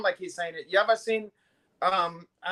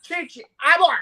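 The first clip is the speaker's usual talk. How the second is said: shouted, much higher and louder, barked order; mock shout; 10 semitones higher, 9 dB louder than usual. Imitating a mob boss ordering abort, mock shout. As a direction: yell it like a furious boss.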